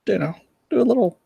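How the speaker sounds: high, fast lisping nerd voice. Retold or imitated. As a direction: mimic the lisping nerd fan. Imitating the lisping guy again.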